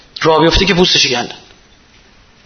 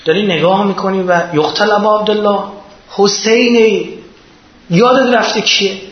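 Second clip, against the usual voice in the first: rebuking cry; 5 semitones higher than usual. Retold or imitated. Zeynab calling out to Omar Saad, in a high rebuking cry. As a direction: cry out in reproach, half-sung. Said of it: "حضرت زینب فریاد زد".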